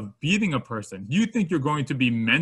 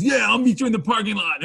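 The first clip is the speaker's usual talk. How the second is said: higher, louder swaggering taunt; tough guy; 7 semitones higher, 5 dB louder than usual. Retold or imitated. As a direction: accept the fight with mock menace. Bar guy accepts the fight.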